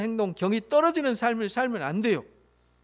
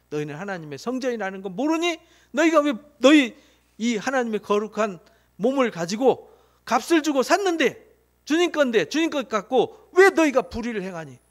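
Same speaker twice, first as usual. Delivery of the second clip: Paul rebuking the Corinthians, a stern raised scolding; retold rebuke; 3 semitones higher, 4 dB louder than usual. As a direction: scold them like Paul, with mounting force. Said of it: "이렇게 말해요".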